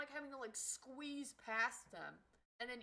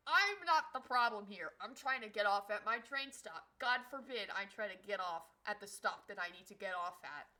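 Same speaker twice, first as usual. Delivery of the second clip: indignant; 7 dB louder than usual. Retold or imitated. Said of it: "I'm like".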